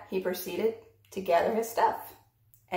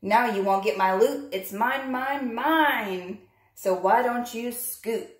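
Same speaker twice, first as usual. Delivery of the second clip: gloating shout; 3 semitones higher, 3 dB louder than usual. Acted. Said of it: "shouted Pig".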